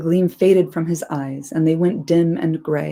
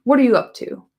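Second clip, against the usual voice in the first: sharp, louder challenge, higher; rough; 6 semitones higher, 5 dB louder, faster than usual. A narrator's reading. Sam waking to challenge Gollum, rough and loud. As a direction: bark it rough and sudden. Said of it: "he said roughly".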